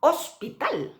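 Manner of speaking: Hospital with no H, stress on the last syllable; silent H. Shown as a demonstration. Teacher showing the silent H in hospital. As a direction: say Hospital starting straight on the O. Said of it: "no aspiramos la H".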